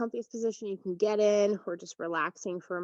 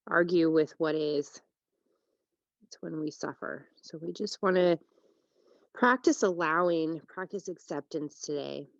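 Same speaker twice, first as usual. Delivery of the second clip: unhurried yoga teacher with long pauses; calm, spacious meditation delivery; guided relaxation. Real, not acted. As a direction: guide them into rest, phrase by phrase. Leads a breathing meditation.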